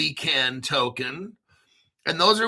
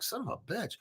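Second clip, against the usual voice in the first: stunned disbelief; 4 semitones higher, 14 dB quieter, faster than usual. Retold or imitated. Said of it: "I'm like".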